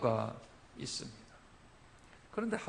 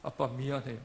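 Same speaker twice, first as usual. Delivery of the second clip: tearful daughter; 4 semitones higher than usual. Retold or imitated. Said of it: "닭똥 같은 눈물을 흘리면서".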